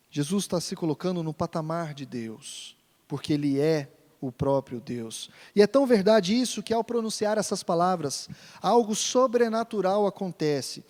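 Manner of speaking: usual speaking voice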